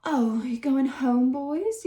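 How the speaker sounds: mock-teasing yell across the yard. A narrator's reading. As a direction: call after them, mocking. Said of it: "yelled Billy".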